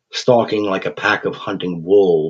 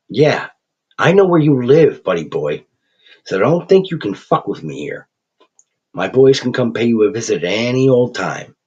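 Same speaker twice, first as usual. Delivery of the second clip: louder thug menace; threatening; 4 semitones higher, 3 dB louder than usual. Acted. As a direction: lean in and threaten.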